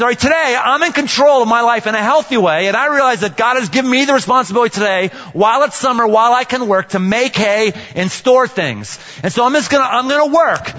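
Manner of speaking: mild upbeat ant pep talk; the ant's voice. Acted. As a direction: play the determined little ant, lifted a bit. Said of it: "The ant says".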